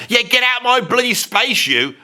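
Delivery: high, pretend indignant outburst; mock annoyance. Reviewer playing himself on reaction cam, mock annoyed. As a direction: shoo someone off in mock anger.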